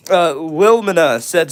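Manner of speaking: normal talking voice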